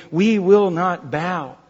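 slow, deliberate declaration; firm resolve. Acted. Believers in tribulation refusing to bow, firmly resolute. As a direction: set each word down firmly.

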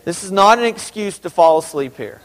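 ordinary delivery

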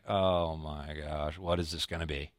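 sinking dread. Retold or imitated. Sinking gut when the mechanic calls with bad news. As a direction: let the gut sink as the words drain out. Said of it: "your gut kinda just sinks".

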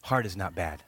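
soft and low, a quiet statement; quiet, earnest reassurance to the church; hushed emphasis. Real, not acted. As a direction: let it land softly after the pause. Sermon point after long pause.

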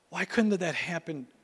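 sigh, then a whispered complaint; whispered grumble. Retold or imitated. Driver muttering about his dented new car, in a whisper.

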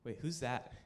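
low, very soft acted dismay; hushed disbelief. Boy spotting a guy with his crush, acted hushed disbelief. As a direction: say it low and halting, as it sinks in. Retold dawning shock at a rival.

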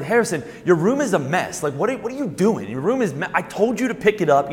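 put-on mildly worked-up dad scolding his kid; retold scolding, pitch creeping up a little; exasperated parent. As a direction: act out a parent starting to lose patience. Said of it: "so my voice is going up".

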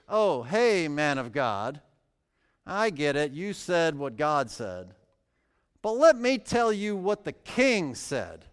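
a lightly mocking "Oh, hey, man of God"; sarcastic paraphrase. Shown as a demonstration. Preacher voicing the first captain's sneering greeting, a touch sarcastic. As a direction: toss it off with a smirk. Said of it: "with just a hint of sarcasm".

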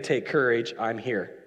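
low, settling voice; calm reassurance. Acted. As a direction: ease their fear gently, softening at the end. Voices Jesus reassuring frightened disciples.

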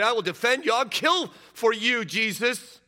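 defiant vow. Acted. Peter vowing to defend Jesus with the sword, lightly voiced defiance. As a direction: swear it like a hothead ready to fight.

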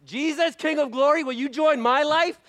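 high, loud imitation of a Christian's prayer; mock pleading prayer. Preacher mimicking believers' self-centred prayer, high and loud. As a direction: play the self-centred believer asking Jesus in. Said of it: "this is normally what we do".

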